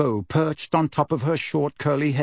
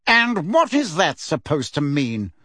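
icy; 3 semitones higher than usual. Acted. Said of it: "asked Fudge icily".

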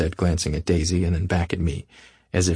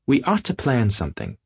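yawning; 5 semitones higher than usual. Acted. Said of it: "yawned Miss Baker".

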